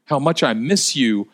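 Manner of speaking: impassioned pleading. Acted. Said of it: "as if she was saying".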